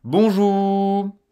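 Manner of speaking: Bonjour said bright and loud with no R at all; no R sound. Shown as a demonstration. Teacher modelling a greeting in the bakery without the R. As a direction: drop the R of Bonjour and greet cheerfully. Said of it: "n'hésitez pas dans la boulangerie".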